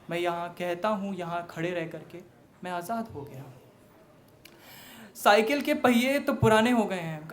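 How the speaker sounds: declaimed verse with emphatic line openings; stage poem recitation; poetry recital. Acted. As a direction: recite to an audience, punching the openings and easing off at line ends.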